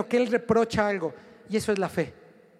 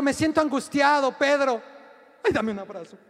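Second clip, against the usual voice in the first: mock melodrama; 3 semitones higher than usual. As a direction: ham up a needy plea for a hug. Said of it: "hagan un superdrama".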